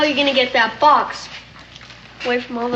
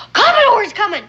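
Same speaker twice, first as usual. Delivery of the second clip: excited warning; 7 semitones higher, 6 dB louder than usual. Acted. Boy warns of the Commodore's approach.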